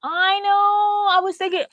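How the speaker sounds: words stretched out by a yawn. Real, not acted. Yawning through words while talking to Rita on a live stream. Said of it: "and it made me yawn".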